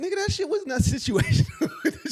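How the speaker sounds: high, laughing call-out; laughing protest. Real, not acted. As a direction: laugh while calling her out. Teasing friend, laughing.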